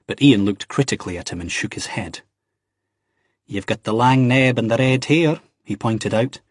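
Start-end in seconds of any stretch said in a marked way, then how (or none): 3.5-5.4 Ian. A narrator's reading. Ian voiced by narrator.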